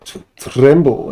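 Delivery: tremble, in a light mock Scottish warrior accent; Scottish Beardicus. Drawing Beardicus for the chat, hinting at a Scottish accent. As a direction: growl it like a tiny Scottish hero, slowly. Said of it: "And he's got a Scottish accent".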